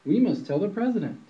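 very high, very loud hen screech; frantic yell. Acted. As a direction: scream the alarm across the yard. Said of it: "and yelled".

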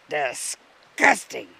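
slow, loud, drawn-out disgust. A narrator's reading. Russell revolted by cows in the stream, disgusted. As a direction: split the word and spit out the revulsion.

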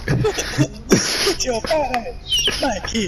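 put-on breathy creepy old man wheeze; lightly voiced creepy old man; Herbert the Pervert voice. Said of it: "I could do Herbert the Pervert".

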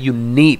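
"need" with a drawn-out EE; long vowel. Shown as a demonstration. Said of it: "และนี่เป็นเสียงยาวเนอะ อืม ลากยาว".

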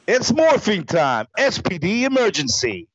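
high, slow commanding hero call; Doggy Kruger voice. Acted. Fan asks for the Kruger catchphrase, heroic call. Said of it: "in your Anubis Kr-, uh, Doggy Kruger voice".

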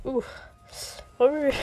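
excited. Retold or imitated. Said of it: "I'm like".

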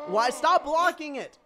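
high, loud, drawn-out protest; frustrated shout. Real, not acted. Gamer to blocking opponent, frustrated shout. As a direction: wail it at the blocker.

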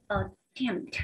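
"attempt" stressed on TEMPT; light first syllable, strong second in "attempt"; teacher's model of "attempt". Shown as a demonstration. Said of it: "động từ nhấn vào âm hai".

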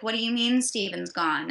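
shocked disbelief. Retold or imitated. Friend answering a parent's news of a death, shocked disbelief. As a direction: re-enact stunned refusal to understand.

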